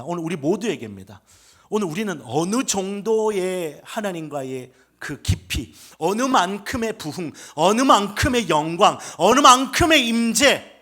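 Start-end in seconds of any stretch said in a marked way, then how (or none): 1.7-10.7 preacher building phrase by phrase to a loud, high peak; full-force preaching. Acted. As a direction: drive each phrase louder, stretching the last.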